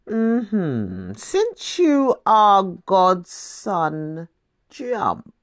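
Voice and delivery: slow, taunting tempter; sly devil. Acted. The devil daring Jesus atop the temple, slow sly taunt. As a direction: dangle the dare slowly, then drop it short.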